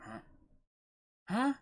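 usual speaking voice

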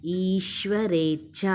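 ఈశ్వరేచ్ఛ said slowly, ఛ pressed hard and doubled. Shown as a demonstration. Teacher shows a child how to press ఛ, slow and careful. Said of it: "ఒత్తి పెట్టి పలకాలన్నమాట".

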